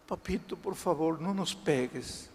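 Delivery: a child's mild, tearful plea, acted; súplica llorosa. (súplica infantil suave, levemente llorosa)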